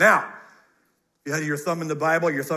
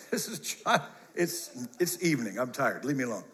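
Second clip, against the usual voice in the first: a low, worn-out mumble, softer, as if done for the night; mock tired preacher; 7 semitones lower, 9 dB quieter than usual. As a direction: play the weary preacher begging to be left alone. Joking he is tired, evening.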